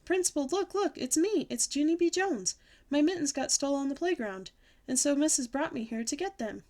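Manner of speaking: put-on high, eager child calling out; excited greeting. A narrator's reading. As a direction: clamour for the principal's attention.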